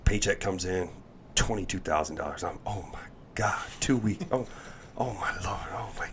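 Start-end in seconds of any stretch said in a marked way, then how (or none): 2.7-6.1 hushed, amazed whisper; awed whisper. Retold or imitated. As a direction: breathe it out in disbelief. Amazed whisper over paycheck.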